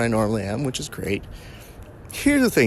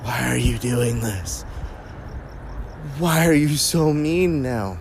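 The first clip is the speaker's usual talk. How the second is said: puzzled white belt; 2 semitones higher, slower than usual. Retold or imitated. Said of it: "a look from some of the white belts, especially at my face, of".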